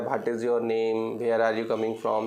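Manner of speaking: What is your name said word by word, very slow; halting village English. Retold or imitated. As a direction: imitate a rural schoolkid's stiff English, very slow. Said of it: "इस तरीके से बोल रहा है".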